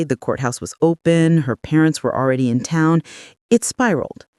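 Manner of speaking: lightly voiced son, pleading his case; defensive son. Son's defensive explanation to mother.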